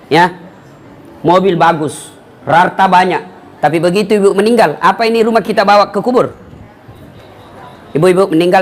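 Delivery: normal talking voice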